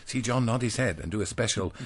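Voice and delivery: lightly hammed-up children's reader voice; reading to children. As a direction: read it like an old school primer. Reads a children's primer aloud.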